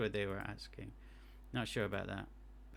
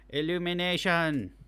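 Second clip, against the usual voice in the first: loud proud announcement; 5 semitones higher, 9 dB louder than usual. Real, not acted. Triumphant reading of result.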